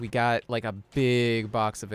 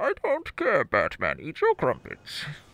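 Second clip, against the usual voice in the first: put-on muffled villain voice; 5 semitones higher than usual. Answering Batman in a made-up scene, in the Bane voice. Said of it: "I love doing the Bane voice".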